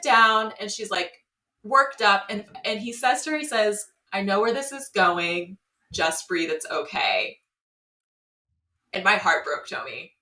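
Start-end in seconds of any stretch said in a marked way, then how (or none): 4.1-7.4 lower, soothing reassurance, trailing down; calm her down, dropping lower line by line; imitating gentle comfort. Date comforting her through the breakup, retold gentle reassurance. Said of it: "still so worried about her".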